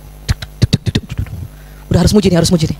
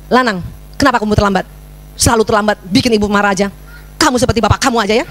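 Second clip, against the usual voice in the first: low-key mock nagging; mild nagging tirade; 4 semitones lower than usual. Shown as a demonstration. Mother nagging her late son on and on, mild grumbling tirade. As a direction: grumble one complaint after another. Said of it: "bahayanya kalau merepet".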